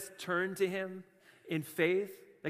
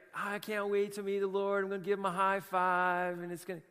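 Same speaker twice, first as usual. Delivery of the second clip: mamby-pamby believer; 2 semitones higher than usual. Retold or imitated. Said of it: "mamby-pamby".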